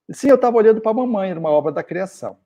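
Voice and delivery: put-on high, fast little boy giving the punchline; a cheeky son pleased with his answer; child's voice.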